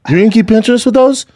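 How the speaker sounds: high-pitched, cocky fish taunt; sassy cichlids. Retold or imitated. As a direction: play a fish talking tough. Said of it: "They're like".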